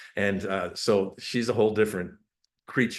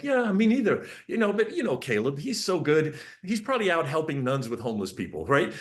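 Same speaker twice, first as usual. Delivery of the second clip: much higher, breezy mock wife; mock Mom voice; 6 semitones higher than usual. Dad imitates Mom in a much higher, airy, contented voice. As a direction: imitate Mom sighing happily about her trusted son. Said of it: "she turned back to me and was like".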